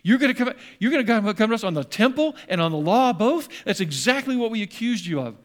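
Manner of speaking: retold indignant outburst from the accusers; indignant crowd. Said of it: "And they're going".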